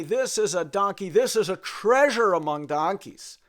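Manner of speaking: loud, slow sales pitch; hammed-up auctioneer praising the donkey. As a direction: sell it to the crowd like an auctioneer. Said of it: "And he says".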